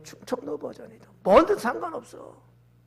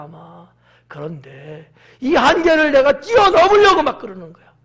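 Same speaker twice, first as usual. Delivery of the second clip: ordinary talk, nothing marked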